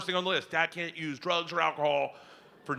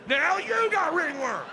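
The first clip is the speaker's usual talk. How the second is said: higher, louder, slow gleeful jeer; triumphant taunt; 11 semitones higher, 4 dB louder than usual. Retold or imitated. Daughter rubbing ringworm on dad, gleeful taunt. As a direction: gloat as you rub it on.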